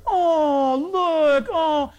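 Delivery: high, gushing little coo; cooing passenger. Retold or imitated. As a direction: swoon at the baby as you pass.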